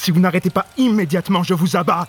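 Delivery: threatening command. Acted. Threatening man holding gun.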